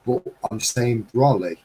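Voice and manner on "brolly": brolly, said "brol-ee" with a rounded O. Shown as a demonstration. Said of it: "which is B R O L L E Y".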